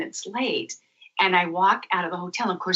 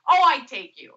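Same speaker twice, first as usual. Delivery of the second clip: higher, louder eager offer; imitating Mark; 6 semitones higher, 5 dB louder than usual. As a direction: jump in keenly as the guide. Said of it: "who shows up".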